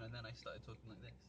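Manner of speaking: quick demo of a changed accent, away from Scottish; put-on accent. Shown as a demonstration. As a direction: switch out of thick Scottish accent. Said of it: "I have a thick Scottish accent".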